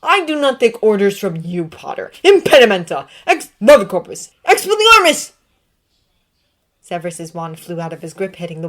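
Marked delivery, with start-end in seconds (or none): 0.0-5.3 loud, high spell barrage; shouting spells. Acted. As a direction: fire off spells yelling.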